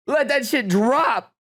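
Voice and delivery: high, slow emphatic cheer; drawn-out hype. Acted. Streamer urging the mic drop, drawn-out hype. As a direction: stretch out DROP like a hype man.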